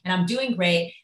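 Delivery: hammed-up gloating about a perfect morning; smug morning self. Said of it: "And you're like".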